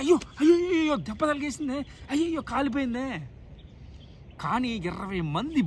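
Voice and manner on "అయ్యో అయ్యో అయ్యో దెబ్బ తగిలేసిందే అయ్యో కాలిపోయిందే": higher, louder mock wailing; whining over a small hurt. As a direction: ham up a small cry of pain. Imitating someone crying over small hurt. (అతిగా ఏడుస్తున్నట్టు నటన)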